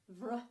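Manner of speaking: "vr" as an isolated consonant cluster; just the faulty "vr" onset; sounded W cluster. Shown as a demonstration. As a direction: voice "vr" alone to show the mistake. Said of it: "so it's not wrong".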